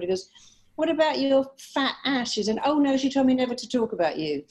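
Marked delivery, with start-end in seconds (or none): 0.7-2.3 higher, teasing jab as the husband; blunt mock retort. Husband's retort acted in told joke. 2.6-4.4 higher, quick punchline as the wife; mock dismissive comeback. Wife's comeback acted in told joke.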